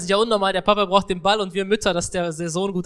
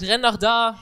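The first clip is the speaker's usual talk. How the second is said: louder, higher mock call; imitated father's shout; 4 semitones higher, 5 dB louder, slower than usual. Interpreter voicing another father at the game, imitated shout. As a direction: shout directions like a sideline dad. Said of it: "Der andere schreit".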